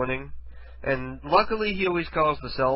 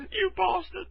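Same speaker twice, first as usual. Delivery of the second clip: very high-pitched mocking cry; mock outraged woman. Mimicking the woken woman's insult, high mock outrage. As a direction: squeal it as an outraged victim. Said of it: "every time I do a bastardly thing".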